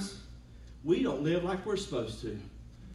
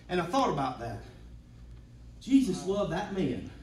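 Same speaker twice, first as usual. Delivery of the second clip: rising, swelling sermon voice; preaching. Acted. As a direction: preach it with building fervour.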